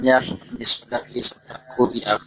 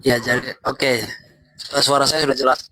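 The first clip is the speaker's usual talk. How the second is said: bad connection. Real, not acted. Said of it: "Masih putus-putus".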